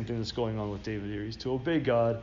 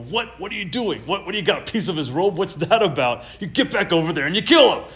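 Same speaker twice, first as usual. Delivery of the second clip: much higher, loud disbelief building to a demand; incredulous soldiers; 7 semitones higher, 7 dB louder than usual. Retold or imitated. Soldiers shouting at David to go kill Saul, loud disbelief. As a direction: soldiers outraged, pushing to finish the job. Soldiers react to spared king.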